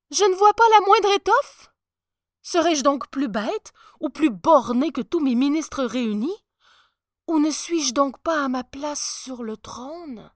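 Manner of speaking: high, loud panicked self-questioning; horrified. A narrator's reading. Emperor fearing he is unfit for the throne, horrified. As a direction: question yourself in rising alarm. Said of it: "saisi d'horreur".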